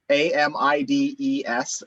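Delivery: letter by letter; spelling it out. Shown as a demonstration. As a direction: spell the word out one letter at a time. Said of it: "To spell it and then pronounce it".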